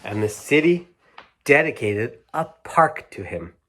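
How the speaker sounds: slowing storybook ending, fading out; bedtime-story finish; reading to children. A narrator's reading. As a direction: close the story gently.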